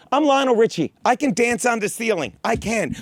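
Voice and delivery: normal talking voice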